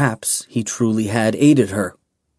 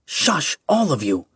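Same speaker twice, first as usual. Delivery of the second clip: "Shush" kept soft, the rest growled; "Shush" hushed, "all of you" growled; 4 semitones higher, 3 dB quieter than usual. A narrator's reading. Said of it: "Erezra growled".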